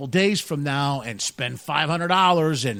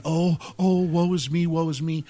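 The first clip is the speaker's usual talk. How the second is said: mock lament. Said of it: "I'm not sitting there saying".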